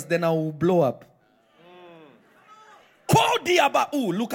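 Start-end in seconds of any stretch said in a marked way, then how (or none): 3.1-4.3 a sudden high shouted mock prayer cry; mock loud prayer. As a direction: shout it like a showy miracle preacher. Mimicking a showy loud prayer.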